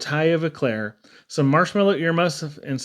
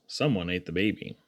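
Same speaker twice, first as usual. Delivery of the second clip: hushed refrain; 8 semitones lower, 8 dB quieter than usual. A narrator's reading. Refrain dropped low and soft.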